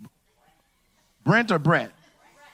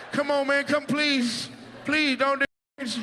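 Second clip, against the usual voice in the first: much higher, hammed-up pleading; mock desperate begging; 7 semitones higher than usual. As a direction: beg like a terrified patient. Patient begging before anesthesia.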